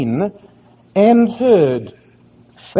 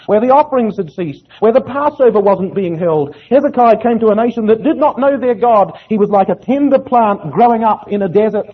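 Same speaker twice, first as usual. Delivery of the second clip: higher, insistent sermon cadence; impassioned preaching; 5 semitones higher than usual. Real, not acted. Preacher telling the congregation of Hezekiah's godless nation, impassioned. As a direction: drive each phrase home from the pulpit, pitched up.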